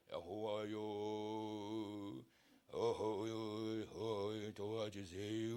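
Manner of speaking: low, soft, slow whimpering plea; mock tearful lament; weeping plea. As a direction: sob it softly to God. Hezekiah weeping acted.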